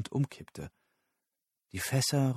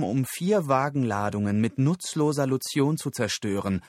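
slightly raised, insistent character voice; Susan, pressing interrogator; 3 semitones higher than usual. Acted. Susan demands the kneeling captive explain himself, pressing.

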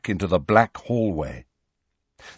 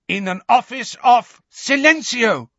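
high, loud cry breaking into a spell; 11 semitones higher, 5 dB louder than usual. A narrator's reading. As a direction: shout it out urgently, pitched up. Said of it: "cried Hermione".

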